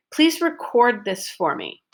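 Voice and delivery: "record" as a verb, long O in the stressed second syllable. Shown as a demonstration. Teacher models the verb in a request, stress on the end of "record". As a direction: lean on the "cord" of "record". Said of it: "stress is on syllable number two".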